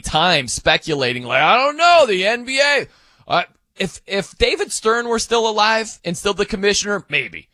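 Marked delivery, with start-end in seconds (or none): 1.4-6.0 mock hand-wringing. Host mimicking people who waste time speculating, mock hand-wringing. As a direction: put on exaggerated uncertainty, pitched well up.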